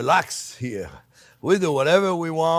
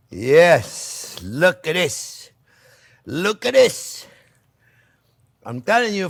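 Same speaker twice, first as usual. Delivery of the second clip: slow, louder, savoring admiration; delighted; 4 dB louder, slower than usual. Real, not acted. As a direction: revel in the dish. Admiring the finished pasta.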